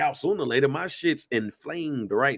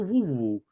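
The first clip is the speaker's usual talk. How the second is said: short falling run of woos; wobbling noise. Retold or imitated. Warning his friend about a torn hamstring, imitated wobble. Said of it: "just wobble".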